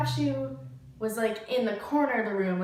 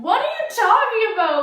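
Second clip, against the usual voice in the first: confused reply; 12 semitones higher, 10 dB louder than usual. Retold or imitated. Girls deny pranking him.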